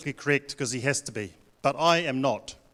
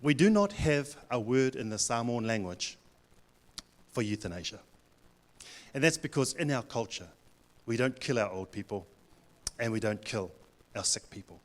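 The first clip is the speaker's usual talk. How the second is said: father-in-law; 3 semitones lower, 4 dB quieter than usual. Retold or imitated. Father-in-law explaining Samoan culture on the phone, grave and soft. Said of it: "the father-in-law said".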